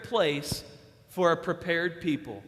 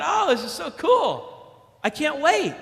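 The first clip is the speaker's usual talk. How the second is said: put-on excited kid; 7 semitones higher, 5 dB louder, slower than usual. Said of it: "I started going crazy".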